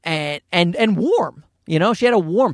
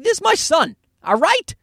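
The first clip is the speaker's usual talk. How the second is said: protective parent; 3 semitones higher, slower than usual. Retold or imitated. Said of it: "I'm like".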